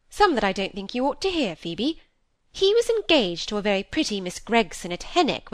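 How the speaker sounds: emphatic, scandal-bearing spinster; lightly voiced disapproving matron; elder sister gossiping. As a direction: lay out the damning gossip point by point.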